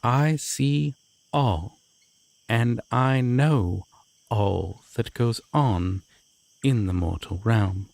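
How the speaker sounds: slow, drawn-out proclamation of a god; grand deity. Acted. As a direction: declare it slowly like an all-seeing deity.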